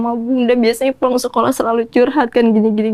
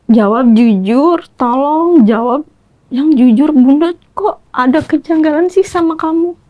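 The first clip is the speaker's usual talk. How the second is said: retold stern demand; 4 semitones higher than usual. Mother retells pressing daughter for truth.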